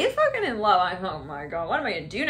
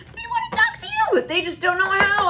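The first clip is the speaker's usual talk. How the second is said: high voice; 11 semitones higher than usual. Acted. Voicing a shy admirer.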